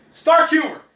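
"dark" leaned on, loud and high with a laugh; stress on dark. Shown as a demonstration. Repeating the excuse, laughing hard on "dark". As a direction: punch "dark" while laughing. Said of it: "Emphasis on the dark".

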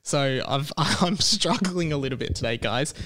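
talking around a sore tongue. Real, not acted. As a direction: speak carefully, tongue hurts to move. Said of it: "I'm talking kind of weird because it's actually painful to talk".

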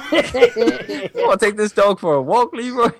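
gruff character voice. Retold or imitated. Re-quoting same movie line.

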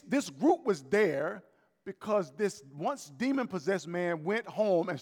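preaching at full force. Real, not acted. Preaching climax, rising.

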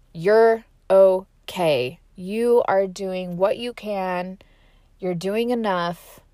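slow, gentle inner reassurance; calm self-talk after a breakdown, slow and tender. Retold or imitated. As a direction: soothe yourself, slowly. Talking herself down after breakdown.

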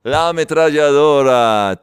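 loud, drawn-out ametralladora; punchline repeated. Acted. Joke teller savouring his punchline, loud drawn-out announcement. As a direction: stretch it out at full voice.

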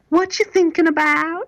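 high, slow questioning wife voice; imitating the wife. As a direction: ask sweetly, drawn out like a curious wife. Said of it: "she says".

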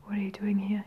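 whispery, scratchy and gasped. Acted. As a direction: gasp the words out scratchily. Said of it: "His voice becomes scratchy and gasped".

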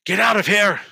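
loud high yell, outburst building; starting to scream. Acted. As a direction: shout it, climbing toward a scream. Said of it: "He just starts screaming".

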